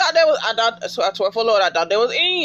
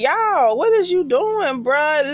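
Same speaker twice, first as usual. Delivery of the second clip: exasperated; 6 semitones higher, slower than usual. Real, not acted. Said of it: "I like".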